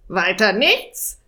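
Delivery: slow, loud indignant "Weiter nichts?"; outraged cry. Acted. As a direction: throw the words back in disbelief. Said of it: "schrie Jakob".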